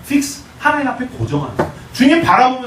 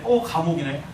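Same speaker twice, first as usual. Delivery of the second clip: grumbling; 6 semitones lower, 6 dB quieter, slower than usual. Acted. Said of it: "막 투덜투덜대고".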